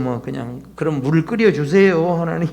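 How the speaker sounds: low, deflated plea; resigned half-hearted prayer. Acted. Believer asking God after giving up, resigned and low. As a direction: give in with a low, weary shrug.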